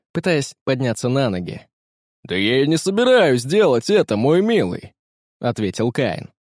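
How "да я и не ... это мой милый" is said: mocking reply. A narrator's reading. Captain mocks the young man.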